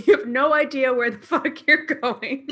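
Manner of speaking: mock scolding while laughing; half-laughing parental scold; laughing mom mode. Real, not acted. Friend scolds her in mom mode, laughing. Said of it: "like, mom mode".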